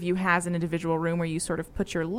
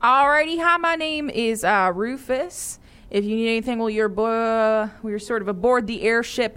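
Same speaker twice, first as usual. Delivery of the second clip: chipper dwarf. Acted. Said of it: "And he says".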